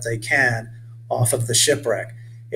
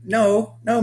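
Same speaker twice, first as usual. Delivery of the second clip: stammering; 9 semitones higher, 3 dB louder than usual. Acted. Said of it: "Mitch stammered".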